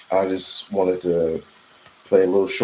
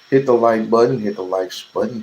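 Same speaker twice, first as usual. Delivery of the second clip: calling out; 3 semitones higher, 4 dB louder, faster than usual. Real, not acted. Calling out to viewers.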